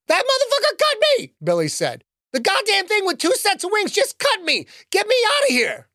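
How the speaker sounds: put-on a hurt kid yelling to get away; pained outburst. Billy, just cut, yells at the man in gray to flee.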